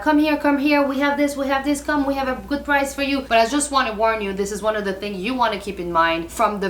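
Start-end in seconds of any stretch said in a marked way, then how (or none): 0.0-3.2 higher, eager market-seller call; pushy street vendor. Retold or imitated. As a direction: beckon tourists in like a Medina hawker. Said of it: "They'll be like".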